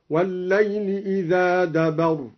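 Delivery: إذا with long a, دبر as dabara; إذا دبر read idhaa dabara; al-Duri reading. Shown as a demonstration. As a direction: recite إذا دبر instead of إذ أدبر. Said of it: "بفتح الذال ممدودة على وزن ضرب".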